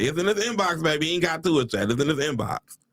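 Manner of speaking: lightly voiced mom, brushing it off; a hint of mom's reassurance; mom's saying. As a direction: quote mom with a slight lilt. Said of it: "my mom used to always say".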